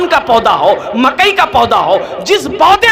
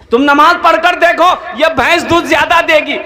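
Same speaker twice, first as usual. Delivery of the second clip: higher and louder, repeating for a hard-of-hearing man; raised repeat for the deaf listener; 5 semitones higher than usual. Retold or imitated. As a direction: say it again, louder and higher so he hears. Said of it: "की बोली जा, बोली जा".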